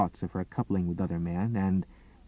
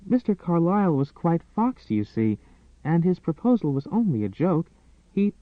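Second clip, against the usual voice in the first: gentle; 7 semitones higher than usual. A narrator's reading. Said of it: "Very gently".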